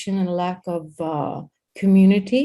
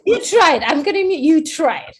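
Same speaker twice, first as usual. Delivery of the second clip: teasing; 9 semitones higher, 6 dB louder than usual. Real, not acted. Teasing Linda, high and loud.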